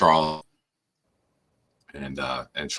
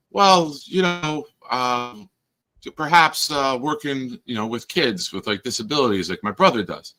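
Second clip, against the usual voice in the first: imitating Charles; 5 semitones higher than usual. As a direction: drag it out, high and earnest. Charles answering, mimicked by dad.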